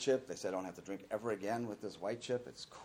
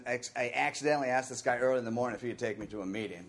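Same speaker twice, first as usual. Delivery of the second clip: ordinary talk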